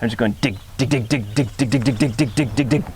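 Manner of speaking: quick "dig" off the tongue tip; rhythmic "dig, dig". Shown as a demonstration. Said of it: "dig, the D sound is usually made with the tip".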